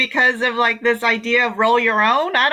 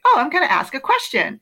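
higher, lilting like someone about to ask; questioning tune; 6 semitones higher than usual. Shown as a demonstration. Guest teaching the tone as asking, questioning tune. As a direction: raise it as if opening a question. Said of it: "think of it like".

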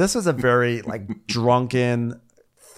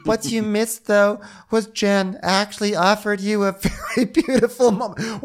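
mocking Whitney; 10 semitones higher than usual. Mimicking Whitney, laughing.

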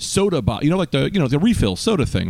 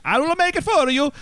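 much higher, put-on voice of an offended mom; mock Indian mother. Son imitating his mom refusing to cook, high mock voice. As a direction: squeak it like a huffy mother. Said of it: "That's not how she talks".

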